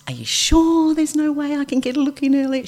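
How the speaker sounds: high, sugary pleading voice; sweet pleading tone. Shown as a demonstration. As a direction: ask it sweetly, almost begging. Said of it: "Use that tone".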